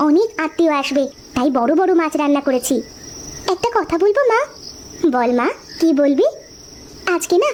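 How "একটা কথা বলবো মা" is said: put-on high childlike pleading voice; a small girl coaxing her big sister for hilsa; little girl. Little girl begs her sister for hilsa fish, high and childlike.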